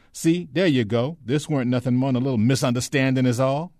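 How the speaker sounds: high, loud, folksy Southern dialect voice; chattering, placating, humble old-servant act; ingratiating Shine figure. Acted. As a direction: talk the armed man down, eager and deferential. Ben keeps up the act.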